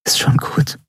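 "Ist schon gut" whispered, stress on "schon". A narrator's reading. Endriel comforting Keru, tender whisper. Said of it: "flüsterte sie".

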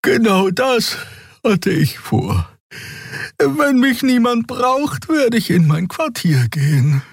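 high, slow, sleepy creature voice; tired Xea. A narrator's reading. Xea answers the captain, slow and sleepy. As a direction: draw it out slowly, half yawning.

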